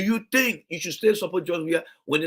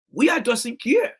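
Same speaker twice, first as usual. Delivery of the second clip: mocking plaintive cry; 7 semitones higher, 4 dB louder, slower than usual. Quoting the women's complaint, louder.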